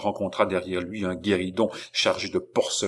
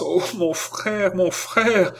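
high-pitched distressed cry; appel affolé; 10 semitones higher, 3 dB louder, slower than usual. A narrator's reading. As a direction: cry out to your brother, voice lifted high. Girl in trance calls brother. (cri de détresse aigu)

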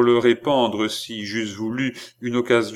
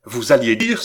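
raised, cutting interruption; menacing cry; 3 semitones higher, 5 dB louder than usual. Acted. Philippe interrupts the count about his sister, crying out menacingly. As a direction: cut in with a threat. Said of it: "s'écria Philippe avec un geste menaçant".

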